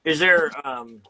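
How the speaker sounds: talking with a toothbrush in mouth; brush in mouth. Real, not acted. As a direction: speak around a toothbrush. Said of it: "sorry, I have a brush in my mouth".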